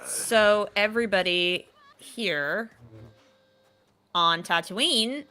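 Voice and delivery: slow, measured delivery with gaps; drawn-out setup. Real, not acted. Teasing a co-player about the locals, slow and deliberate. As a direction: spell it out slowly, pause between phrases.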